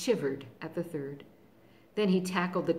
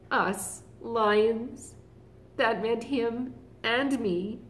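proud lion; 3 semitones higher, slower than usual. Acted. Other lion boasting to everyone he meets, proud. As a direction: puff up with pride. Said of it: "to say to everyone he met".

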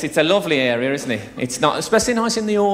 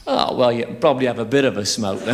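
sheepish punter; 8 semitones lower than usual. Retold or imitated. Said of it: "and people thought".

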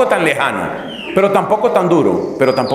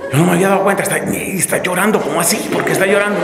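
higher, stammering mock bewilderment; flustered bewilderment; 4 semitones higher, much faster than usual. Baffled confessor asking himself why she is crying, acted fluster. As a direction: stumble over it as if caught off guard.

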